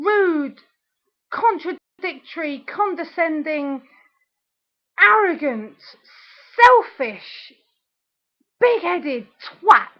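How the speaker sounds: spaced-out, rising volleys of insults; angry name-calling. Real, not acted. Listing the ex's faults in a rant, angry. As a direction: fling each insult out separately.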